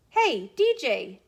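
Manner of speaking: a teacher greeting a grinning student with a loud, slow hello; friendly shout. Acted. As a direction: call it out slowly like a cheerful teacher. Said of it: "Todd shouted".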